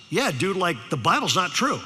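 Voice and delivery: mock Valley-kid confirmation; Valley teenager. Sophomore repeats his challenge, imitated Valley talk. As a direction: lightly imitate a matter-of-fact Valley dude. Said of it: "you know how they talk".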